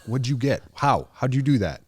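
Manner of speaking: mock bewildered quizzing; baffled. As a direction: sound genuinely stumped by it. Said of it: "I'm like".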